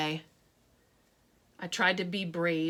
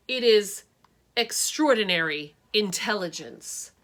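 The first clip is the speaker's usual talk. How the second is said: no-nonsense reading; 5 dB louder than usual. Acted. Teacher reading to her new class, firm and no-nonsense. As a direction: lay down the definition like law. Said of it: "reading in this no-nonsense voice".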